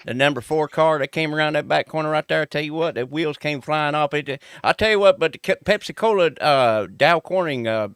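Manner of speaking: 1 NASCAR commentator. Acted. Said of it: "He wants the nascar act".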